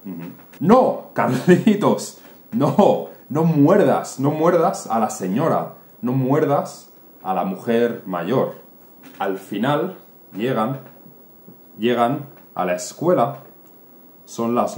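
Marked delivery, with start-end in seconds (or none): 0.6-8.6 alarmed shout. Acted. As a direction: yell to stop the boy biting. Mother shouts at biting child. (la madre grita a Carlitos, más alta y fuerte)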